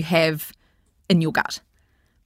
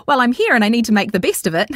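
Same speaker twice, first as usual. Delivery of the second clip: raised, quick party voice; put-on social voice; 5 semitones higher, 4 dB louder, faster than usual. Imitating guests uncomfortable at a party, put-on voice. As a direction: push it up high and fast, putting on a show. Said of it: "that voice that comes out".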